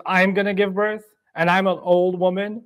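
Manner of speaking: acted crying out. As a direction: exclaim as the astonished wife. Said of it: "she cries out and says".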